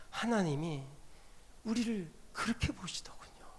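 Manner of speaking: hushed, breathy whisper to the congregation. Real, not acted. Preacher whispering God's view to the congregation. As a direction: let it fall to a whisper.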